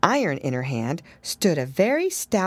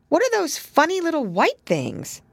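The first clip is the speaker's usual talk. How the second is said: put-on little girl; 11 semitones higher than usual. A narrator's reading. Lucy voiced.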